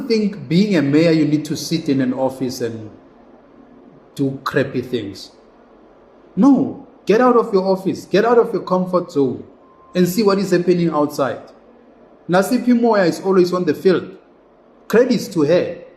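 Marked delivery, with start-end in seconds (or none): 6.3-11.5 raised, higher voice pushing the point hard; rally the listeners, no nonsense; emphatic call to action. Real, not acted. Vlogger urging mayors to get out, raised emphatic voice.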